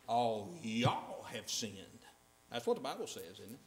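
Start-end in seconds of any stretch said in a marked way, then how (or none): 0.1-1.8 mocking. Mocking self-excusing reading of scripture.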